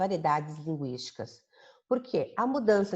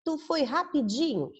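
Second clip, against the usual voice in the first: "tu foi rapidinho" said higher and breezy; colloquial form; 8 semitones higher than usual. Shown as a demonstration. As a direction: toss off the casual "tu foi rapidinho". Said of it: "nós usamos, é, um linguajar comum, coloquial".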